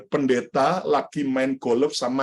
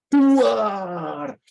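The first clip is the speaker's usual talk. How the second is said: thunder boom; 6 semitones higher than usual. Acted. Preacher acting out lightning hitting the golfer, booming cry. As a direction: shout out the lightning strike like a crash.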